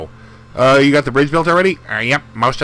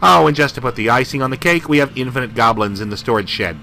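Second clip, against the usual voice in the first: gruff army captain. Acted. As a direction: boss the recruits around like a captain. Voices the captain again.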